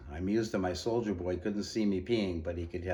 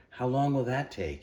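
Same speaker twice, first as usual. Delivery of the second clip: desperate; 6 semitones higher, 5 dB louder than usual. Acted. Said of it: "He sounded desperate".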